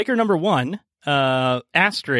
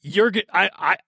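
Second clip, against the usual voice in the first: desperate NPC; 5 semitones higher than usual. Acted. NPC apologizing before grabbing hostage.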